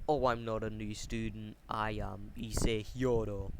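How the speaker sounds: cold, slightly dead tone; understated coldness, slowing on the name; Issei Hyodo. Retold or imitated. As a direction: say it a touch cold and lifeless. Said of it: "Issei says with a cold tone, cold, slightly dead tone".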